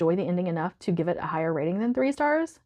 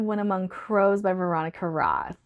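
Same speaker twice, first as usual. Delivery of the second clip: whisper. Real, not acted. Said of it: "whispered title".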